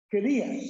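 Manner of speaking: career said clearly as kuh-REER; careful teacher model of career; model pronunciation. Shown as a demonstration. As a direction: say career carefully, stress on the second syllable. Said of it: "Career is job".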